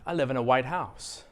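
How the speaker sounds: weight falls on "house"; stress on HOUSE. Shown as a demonstration. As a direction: lengthen "house" as the stressed word. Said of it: "What word am I stressing?".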